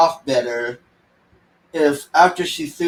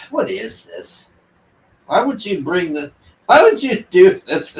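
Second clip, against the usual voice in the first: higher, incredulous, breathy start; exasperated disbelief; 3 semitones higher than usual. Retold or imitated. Reviewer baffled by the Valkyrie character, exasperated. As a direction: throw up your hands in disbelief.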